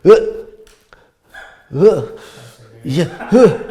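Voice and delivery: imitated stuck heckler, long gaps between grunts; short dumbstruck "uh" sounds with long pauses; halting, tongue-tied grunts. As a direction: grunt helplessly, as if lost for words. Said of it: "he literally just went".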